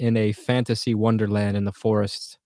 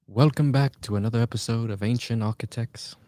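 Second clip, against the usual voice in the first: lightly voiced show intro; a half-hearted host impression, not warmed up; bad impression of a show host; 4 dB quieter than usual. Streamer imitating the Ancient Architects intro, lightly voiced host. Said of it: "That was a bad impression".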